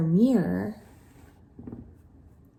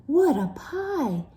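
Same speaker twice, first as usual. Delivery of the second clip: higher excited gush; 7 semitones higher than usual. Acted. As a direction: gush over the pie. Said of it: "gushed Hilda".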